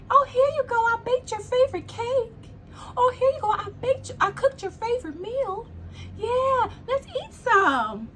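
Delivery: high, sugary, overly sweet offer; sweet fake host. Acting out a sweet-talking poisoner.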